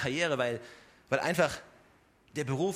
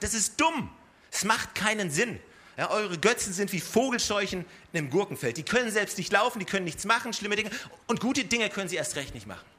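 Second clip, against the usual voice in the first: higher-pitched disbelief at sheer stupidity; exasperated Jeremiah; 3 semitones higher than usual. Acted. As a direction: voice the prophet's exasperation at pointless idols. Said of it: "Seine Betonung ist vielmehr". (fassungslos über so viel Dummheit, mit höherer Stimme)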